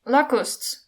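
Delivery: short bellow, only lightly acted; mild bellow. A narrator's reading. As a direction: call it out with a restrained bellow. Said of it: "Strong Belvas bellowed".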